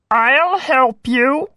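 slow, friendly frog voice; a kindly little frog offering help. A narrator's reading. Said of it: "said the frog".

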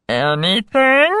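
rising, sly frog question; a cunning little frog. A narrator's reading. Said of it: "smiled the frog".

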